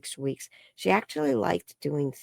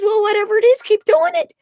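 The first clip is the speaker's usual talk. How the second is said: much higher, louder playful doctor; mock doctor voice; 7 dB louder, faster than usual. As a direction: imitate the baffled doctor with a grin. Voicing the doctor's verdict.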